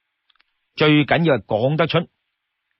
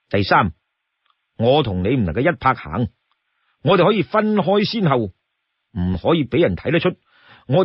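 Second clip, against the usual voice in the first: companion laying down rules; 2 semitones lower than usual. Acted. Storyteller voices calm companion laying rules.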